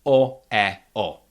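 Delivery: O, E, O each said as a full, clear vowel; fully pronounced vowels. Shown as a demonstration. Teacher showing learners undiminished Czech vowels, O, E, O fully pronounced. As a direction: give O, E and O full value, none diminished. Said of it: "they are pronounced fully".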